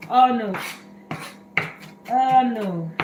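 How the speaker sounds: loud, real groaning dismay at the onion fumes. Real, not acted. Cook to her viewers as the onion stings, dismayed loud oh no. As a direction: exclaim it as the onion starts to sting. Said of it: "Oh, I'm going to cry now".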